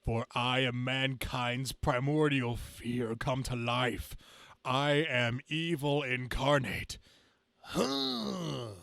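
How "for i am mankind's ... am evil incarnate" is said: slow, pompous evil proclamation; grand villain declaration. Acted. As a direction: proclaim yourself evil with relish.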